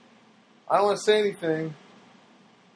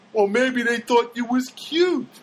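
teasing neighbor; 7 semitones higher, slower than usual. Retold or imitated.

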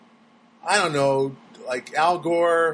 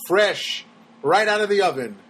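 upbeat cheesy ad-announcer pitch; 3 semitones higher than usual. Acted. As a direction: sell it like a bakery commercial. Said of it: "What am I talking about?".

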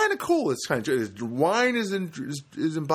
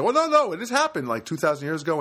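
mock know-it-all; 5 semitones higher, 4 dB louder than usual. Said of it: "like they said".

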